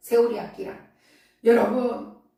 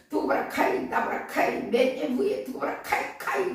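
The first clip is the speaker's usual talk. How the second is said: Gyeongsang dialect; 2 semitones higher than usual. Retold or imitated. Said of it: "경상도 말로".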